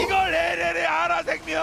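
excited caster shout. Real, not acted. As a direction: yell it out over the crowd. Caster calls team's win. (흥분한 중계 외침)

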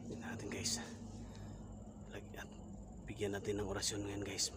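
hushed whisper to viewers. Real, not acted. Whispering to viewers in a haunted house. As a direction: whisper so nothing hears you.

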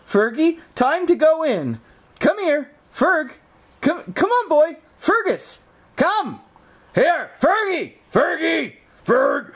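high, sing-song calling the dog; high dog-owner voice. Acted. Owner calling Fergus to go outside, sing-song. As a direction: coax the dog out cheerfully.

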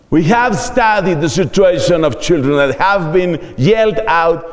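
a slow, lightly read English quote, as if reading a journal abstract; mock academic English. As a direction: read it out slowly like a dry paper summary. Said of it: "en cuyo abstract se lea". (cita en inglés leída despacio, como un resumen académico)

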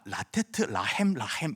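"라테트 라헴 라헴" read out as Hebrew, each word starting on an L sound; Hebrew pronunciation. Shown as a demonstration. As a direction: demonstrate "라테트 라헴 라헴" as a Hebrew reading. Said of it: "히브리어로 읽으면 아주 독특한 발음으로 되는데". ("라테트 라헴 라헴"을 히브리어 발음으로 읽기)

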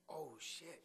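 breathy whisper of alarm; hushed inner panic; whispered thought. Retold or imitated. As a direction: mutter it under your breath, startled. Kid's private thought, unspoken.

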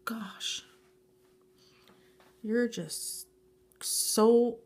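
breathless whispered wonder; awed whisper. Real, not acted. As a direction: whisper it in disbelief. Awed whisper over gift.

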